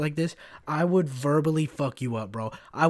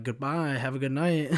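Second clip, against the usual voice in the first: passive-aggressive goodbye. Retold or imitated. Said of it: "passive-aggressive shit".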